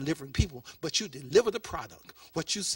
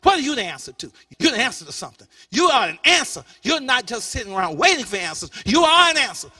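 loud, high, building exhortation; impassioned preaching shout; 7 semitones higher, 14 dB louder than usual. Real, not acted. Preacher tells the congregation they are the answer, impassioned shout. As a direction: drive it home at full force.

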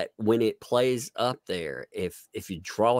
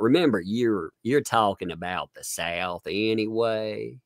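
slowed Southern drawl; lightly thickened Southern twang; thicker Southern accent. Shown as a demonstration. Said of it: "trying to throw in a thicker accent".

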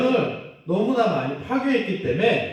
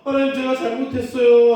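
raised, pleading plea to God; child saying sorry to God, raised pleading; humble confession; 6 semitones higher, 4 dB louder than usual. Pretend. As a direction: beg forgiveness a touch louder. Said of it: "겸손해져서".

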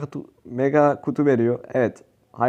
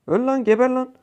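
much higher, frustrated cursing; angry shout; 9 semitones higher than usual. Real, not acted. Gamer yelling at an enemy player: high angry cursing. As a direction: hurl it at the enemy. Raging at enemies mid-game.

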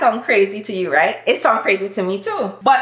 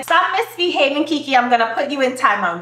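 put-on American accent. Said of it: "Americans will say".

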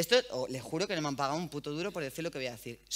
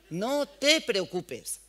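No te preocupes stretched out very slowly, louder and cooing; imitating soothing shop girl; 3 semitones higher, 5 dB louder, much slower than usual. Shop girl calming the boy while doing his eyeliner, slow cooing mock voice. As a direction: drawl No te preocupes out like you're calming a child. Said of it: "Y la otra haciéndole con el eyeliner".

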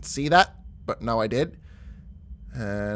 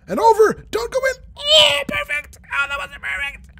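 much higher and louder, yelling at the ball; excited shouting; 5 dB louder than usual. Real, not acted. Player shouts at the rolling ball, thrilled. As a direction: urge the ball on at full voice.

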